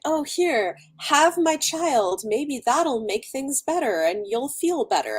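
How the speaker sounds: high, slow, syrupy mock offering; mocking naive people. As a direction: lightly parody a gullible do-gooder. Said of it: "people are like".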